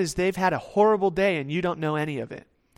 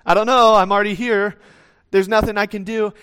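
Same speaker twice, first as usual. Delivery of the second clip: shrugging excuse; 4 semitones higher, 8 dB louder than usual. Retold or imitated. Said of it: "I kinda wave my hands up like".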